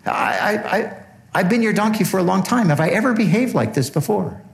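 high, fast pleading donkey voice; donkey pleading with its master, high and hurt; talking donkey. Retold or imitated. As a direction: squeak it out as a wounded, puzzled donkey. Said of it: "The donkey's like".

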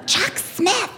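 high, insistent imitation; emphatic naming. Shopper explaining whose daughter it is, emphatic. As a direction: drop the famous name with pointed emphasis.

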